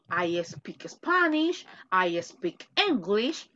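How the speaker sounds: slow, even classroom model; slow teacher demo of a simple sentence. Shown as a demonstration. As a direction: say each word slowly for the class. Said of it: "yo hablo".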